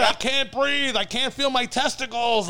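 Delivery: high-pitched mock scream; retold scream. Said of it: "Like, he's screaming".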